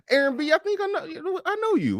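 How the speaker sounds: laughing call-out. Real, not acted. Calling out a troll on stream.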